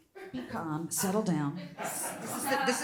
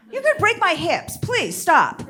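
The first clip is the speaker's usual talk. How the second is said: mock plea; 6 semitones higher, 7 dB louder than usual. Mock plea to muscly young guys.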